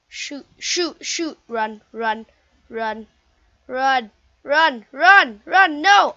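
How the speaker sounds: frantic gamer yelling before dying; panicked yelling. Real, not acted. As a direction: shout as the enemy closes in. Fleeing attacker in game.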